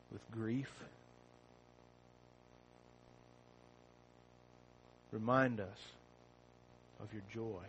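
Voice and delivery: soft, hushed pastoral prayer; low reverent prayer voice. Acted. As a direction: pray quietly and earnestly to God. Pastor leads opening prayer.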